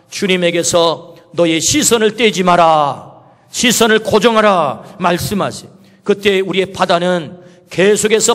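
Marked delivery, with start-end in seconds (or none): 0.1-5.0 slow, earnest command with 시선을 held; voice of the Lord. Acted. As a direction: press 시선을 gently but firmly. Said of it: "주님 말씀하십니다".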